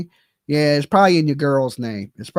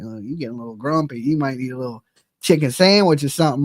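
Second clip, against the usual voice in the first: coaxing partner; 5 semitones lower, faster than usual. Retold or imitated. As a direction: gently talk a grumpy man into eating. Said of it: "She'd be like".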